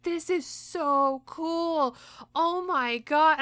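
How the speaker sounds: high, slow, amazed gush; awed gushing. Retold or imitated. Idol amazed by fans on the screen, high gush. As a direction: gasp it out in wonder.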